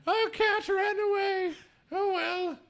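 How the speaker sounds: high, careless parent voice shrugging it off; a high, offhand oh well. Retold or imitated.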